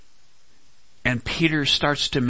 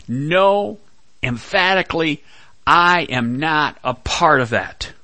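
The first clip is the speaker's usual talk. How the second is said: higher, louder, furious denial; angry denial; 4 semitones higher, 5 dB louder than usual. Retold or imitated. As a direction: fling the denial back in anger. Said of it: "he calls down curses and says".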